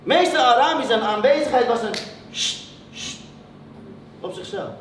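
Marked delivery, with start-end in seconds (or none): 2.3-3.2 hushing sound. Retold or imitated. Teacher's presence as a hushing sound.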